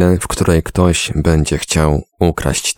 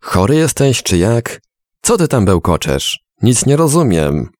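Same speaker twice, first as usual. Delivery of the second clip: higher pitched, exasperated outburst; indignant yelling; 7 semitones higher than usual. A narrator's reading. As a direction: demand an answer, still rattled and cross. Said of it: "krzyknął z oburzeniem".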